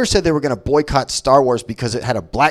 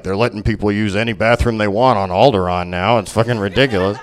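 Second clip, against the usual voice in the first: grumpy Vader racist; 8 semitones lower, 4 dB quieter than usual. Retold or imitated. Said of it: "he'd be like".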